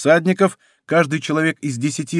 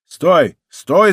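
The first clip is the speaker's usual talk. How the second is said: loud shout, rising on the second; shouting stop; 4 semitones higher, 6 dB louder than usual. A narrator's reading. Leader shouts to stop the attack, loud. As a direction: yell it to halt the men. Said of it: "закричал тот же громкий голос".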